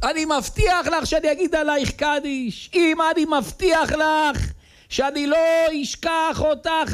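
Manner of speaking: put-on high, wailing cry of a boy at the grave; crying out to mother. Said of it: "והוא צועק".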